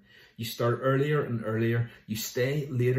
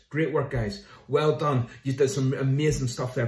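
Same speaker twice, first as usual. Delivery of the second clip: hearty well done, full of pride; enthusiastic praise; 3 semitones higher, 7 dB louder than usual. Acted. Jesus cheering apostles back from their mission, loud and proud.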